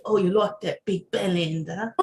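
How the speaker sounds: put-on playful British accent; light mock British accent; British ex-boyfriend. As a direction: repeat the British boyfriend's line, mimicking. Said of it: "He said".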